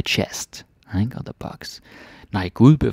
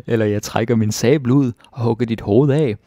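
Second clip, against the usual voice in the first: threatening; 2 semitones higher, 4 dB louder than usual. Acted. Soldier threatens the witch.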